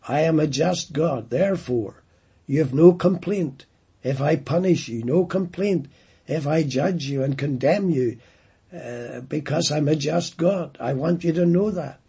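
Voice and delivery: a hint of a stern divine judge, building in places; voicing God. Preacher voicing God warning rebellious people, stern and emphatic. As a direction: lay down the law as God, pressing each point. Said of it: "God could have said that".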